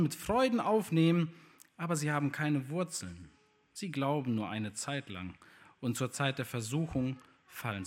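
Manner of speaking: measured, solemn Bible reading to the congregation; scripture reading. Acted. Preacher reading Luke eight to his congregation, solemn reading voice. Reads scripture passage aloud.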